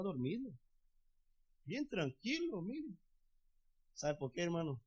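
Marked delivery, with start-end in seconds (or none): 1.6-3.0 calm and quiet. Acted. Jesus asleep in the storm.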